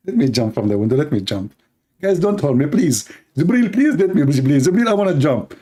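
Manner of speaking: hammed-up begging to be let go; mock pleading. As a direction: plead in pretend desperation. Acting Muhammad begging to jump.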